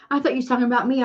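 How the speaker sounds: ordinary talk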